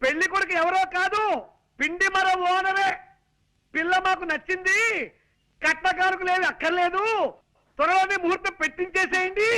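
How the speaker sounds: bursting to share good news; worked-up announcement. Acted. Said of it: "ఇలా కాళ్ళు చేతులు ఊపుతూ హైరాణ పడాలా". (ఉత్సాహంగా హడావిడిగా చెప్పడం)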